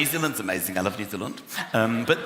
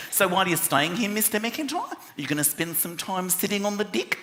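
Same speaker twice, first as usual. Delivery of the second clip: Kiwi receptionist; 3 semitones higher, 4 dB quieter than usual. Retold or imitated. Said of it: "she said".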